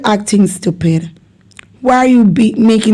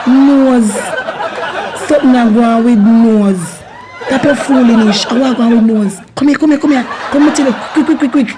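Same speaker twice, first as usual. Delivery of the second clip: excited Jamaican caller; 3 semitones higher than usual. Acted. Playacting a nosy Jamaican neighbour.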